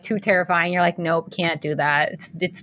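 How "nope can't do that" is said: mock refusal. Scared younger self backing out of a good thing, mock refusal.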